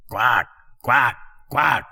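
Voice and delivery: spoken quack quack quack like a duck; lightly voiced duck quacks. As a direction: quack it out, rising. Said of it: "she said".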